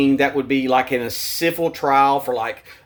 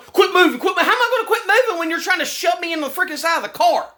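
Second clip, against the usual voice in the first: retold cop yell; 13 semitones higher than usual. Man reliving the cop shoving him, mock yell then laughing protest. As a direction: bark the cop's order, then scoff back. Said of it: "And he's like".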